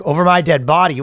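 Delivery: lightly voiced indignant father; mock stern dad. Dad refusing his son a tractor, lightly mock stern. Dad answers the child, acted.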